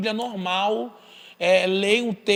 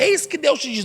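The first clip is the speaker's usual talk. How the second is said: higher-pitched mock prophet; imitated prophecy; 6 semitones higher than usual. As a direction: imitate someone proclaiming a word from God. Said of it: "alguém falava".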